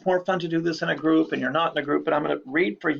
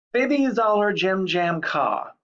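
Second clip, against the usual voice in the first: "Bibby Zoller Jim Jam Ka" said slowly and higher, syllables held apart; slow nonsense dictation; 4 semitones higher, slower than usual. Shown as a demonstration. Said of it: "Seven syllables".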